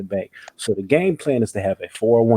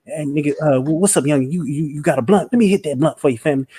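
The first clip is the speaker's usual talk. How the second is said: put-on higher, rambling old drunk voice; drunk old man voice; 6 semitones higher than usual. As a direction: do the corner-store drunk uncle.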